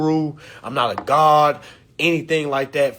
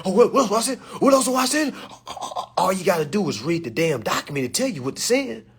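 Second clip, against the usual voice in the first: mocking note-taker; 4 semitones higher, faster than usual. Mocking people writing it down.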